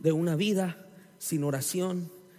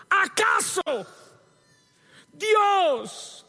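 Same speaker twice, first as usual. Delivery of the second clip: much higher, louder, slow rhetorical jab; Jesus posing a sarcastic question, higher and louder; 8 dB louder, slower than usual. Retold or imitated. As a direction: drive the question home mockingly. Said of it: "usa una pregunta sarcástica cuando dice".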